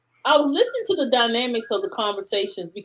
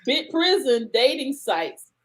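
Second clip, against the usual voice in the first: laughing; 3 semitones higher, 4 dB louder, slower than usual. Real, not acted. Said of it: "I can't say it with a straight face".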